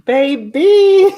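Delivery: put-on high, loud cooing "Baby"; imitating Coco. Mimicking Coco's tongue-out call to the stream, loud high coo. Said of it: "she stick out her tongue and is like".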